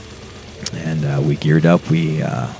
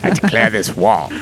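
pitched-up mock challenger; hammed-up declaration, higher than usual; mock war declaration; 6 semitones higher than usual. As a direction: play at challenging someone to a duel. Mock glove-slap challenge to duel.

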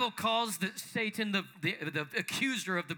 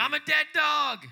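voicing Mephibosheth's shame; 6 semitones higher, 6 dB louder than usual. Pastor acts Mephibosheth's self-loathing.

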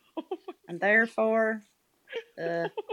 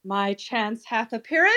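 put-on English accent. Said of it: "Do you have to add the English accent?".

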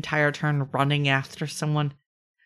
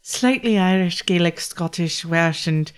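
Gaelic accent. Shown as a demonstration. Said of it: "do the Gaelic accent".

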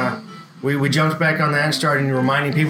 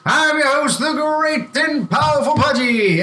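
announcer voice; 8 semitones higher than usual. Acted. Host self-introduction, shouted.

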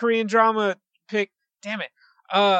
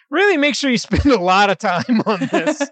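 laughing; 3 semitones higher, 5 dB louder than usual. Real, not acted. Teasing editor to take care.

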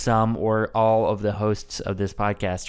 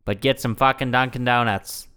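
put-on Massachusetts accent, steady and emphatic; Kennedy. Host mocking friend's accent attempt, Kennedy-style Boston voice. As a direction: mimic a Boston politician's oratory. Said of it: "Yeah, but you're doing, like".

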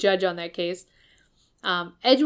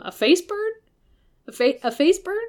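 high, panicked disbelief at the burn; shocked Sebastian; 9 semitones higher, 3 dB louder than usual. Retold or imitated. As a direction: squeak out the question in alarm.

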